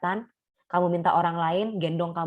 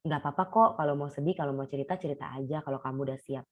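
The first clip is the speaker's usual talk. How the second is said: softer, reassuring a sad friend; gentle comfort; 3 semitones lower, 4 dB quieter than usual. Retold or imitated. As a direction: ease them in, fading ever softer. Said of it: "Nah, gitu ya".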